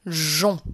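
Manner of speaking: French "jon", final n not sounded; syllable read aloud. Shown as a demonstration. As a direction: model the isolated syllable "Jon" for a reader. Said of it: "Donc ça fait bien jon".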